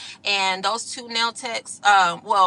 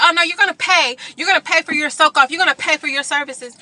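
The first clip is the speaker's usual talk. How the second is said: higher, insistent mock of the tech; pitched-up mocking "you're gonna pay"; insistent demand; 6 semitones higher than usual. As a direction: imitate her laying down the law. Tech demanding payment, retold.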